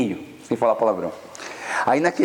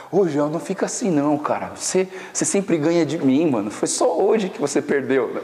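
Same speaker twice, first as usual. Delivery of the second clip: ordinary talk, nothing marked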